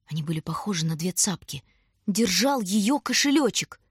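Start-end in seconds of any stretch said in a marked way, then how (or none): none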